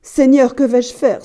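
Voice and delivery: a wife's mild tearful outcry; tearful dismay. A narrator's reading. Wife alone with the bleeding key, tearful dismay. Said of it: "Elle se mit à pleurer".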